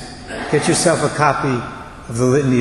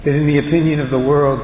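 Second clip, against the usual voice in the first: prayerful reading. Acted. Reads the Litany of Humility.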